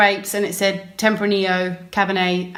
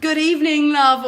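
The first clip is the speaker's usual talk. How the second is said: imitating shopkeeper; 5 semitones higher than usual. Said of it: "I can't do the Turkish accent".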